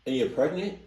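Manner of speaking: blurting it out in shock; alarmed disbelief. Real, not acted. Reacting to the story's clerk alone and pregnant, shocked and fast.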